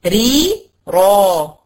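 ري thin then را heavy, drawn out very slowly; slow contrast demo. Shown as a demonstration. Teacher slowly contrasting ري and را for the student. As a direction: stretch ري and را so the tongue shift is felt. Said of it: "وحسي كده بنقلة لسانك".

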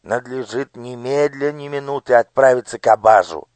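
high, commanding minister's voice; a cold lord issuing orders to his daughter; scheming minister. Acted. (властный голос министра)

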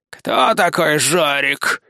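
slow, doubting, lightly voiced old rat; distrustful question. A narrator's reading. Old rat doubting the mouse, slow and distrustful. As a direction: drag it out suspiciously. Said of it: "недоверчиво скривилась старая крыса".

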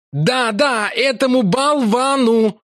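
Larry snapping at Lakla; angry bark. A narrator's reading. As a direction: bark it back. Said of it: "рявкнул О'Кив".

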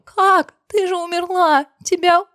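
put-on shocked girl crying out at a friend returned from death; shaken, shocked. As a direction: cry out in disbelief, shaking. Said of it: "Дину буквально колотило".

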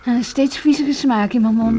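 bitter disgust. Acted. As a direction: let the bad taste come through each word. Bitter remark after the tease.

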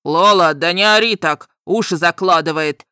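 громкий рык дракона; loud growl. A narrator's reading. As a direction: snap at her to stop screaming. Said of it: "рыкнул громко дракон".

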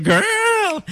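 high, sassy snap of a word; sassy diva girl. Pretend. Host snapping his fingers, sassy camp girl cry. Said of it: "I'm snapping my fingers like".

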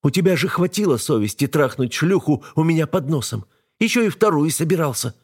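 wife begging husband to stop the fight; wife's voice, pleading. A narrator's reading.

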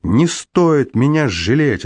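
high, furious explosion of anger; angry outburst. A narrator's reading. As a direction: burst out at his pity. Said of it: "Но Лона взорвалась". (высокий, гневный взрыв)

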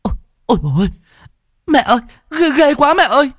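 high, loud scream of fright; a girl seeing a ghost screams to her mother in terror; terrified shriek. Acted. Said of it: "hét lên".

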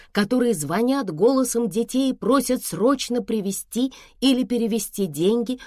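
usual speaking voice

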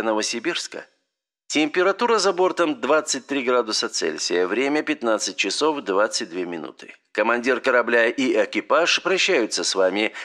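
flight attendant over the intercom; airplane announcement. Acted. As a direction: announce the landing like cabin crew.

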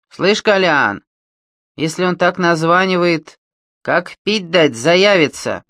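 громкий грубый голос бандита; говорить как наглый уголовник; грубый бандит. Acted. Бандит Серый говорит с Коляном. (грубый бандитский голос)

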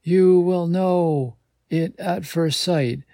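a parting word from a vanishing fairy; high, slow, distant fairy farewell; fading fairy voice. A narrator's reading. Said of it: "The whispered words trail off".

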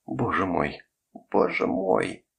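narrated sob, breaking on the repeat; lightly acted tearful lament, rising in pitch; sobbing. A narrator's reading. Shaken mother clutching her head after the attack, understated sobbing. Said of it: "всхлипывала Катерина".

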